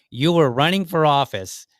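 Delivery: retold indignant comeback; incredulous retort. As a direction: throw it back at him in disbelief.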